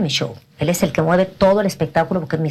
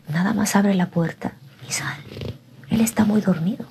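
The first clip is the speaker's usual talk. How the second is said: tempting whisper; 3 semitones higher than usual. Retold or imitated. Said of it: "mi carne me decía". (susurro tentador de la carne que la invita a salir)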